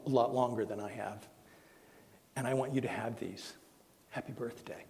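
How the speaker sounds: gently voiced loving husband, soft with long pauses; tender declaration. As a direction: quietly imitate a heartfelt husband, unhurried between phrases. Husband's love declaration voiced in story.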